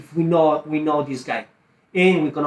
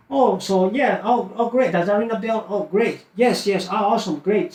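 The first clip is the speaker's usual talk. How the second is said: higher, eager salesman patter; upbeat acknowledgement; 5 semitones higher than usual. Shown as a demonstration. Sales coach modelling a reply to the seller, upbeat acknowledgement. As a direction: receive the answer brightly, pitched up.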